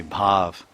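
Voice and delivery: bhav with a long open A. Shown as a demonstration. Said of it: "And long A".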